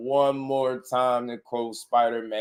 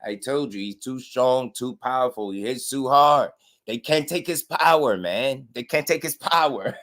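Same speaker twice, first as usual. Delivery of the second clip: higher proud boasting dad, lightly put on; imitating bragging father; 4 semitones higher than usual. Mocking the father again as he boasts of his son's strength. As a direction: crow about your son's power. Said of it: "that's how he be".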